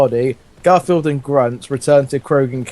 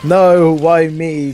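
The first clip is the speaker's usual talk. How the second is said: mock cry; 2 semitones higher, 4 dB louder, much slower than usual. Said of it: "cried the Thrashamore".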